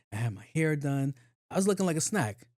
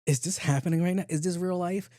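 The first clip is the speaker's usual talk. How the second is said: disbelief; 6 semitones higher than usual. Retold or imitated. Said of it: "I'm like".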